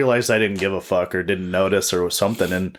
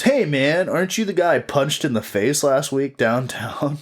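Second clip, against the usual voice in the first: mimicking homeless guy; 6 semitones higher than usual. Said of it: "And he goes".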